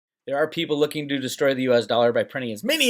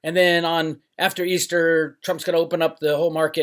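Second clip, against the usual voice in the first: higher-pitched mock optimism; hopeful believers; 4 semitones higher than usual. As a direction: lightly mimic people promising good news. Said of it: "all the people who said".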